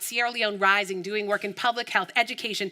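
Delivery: ordinary talk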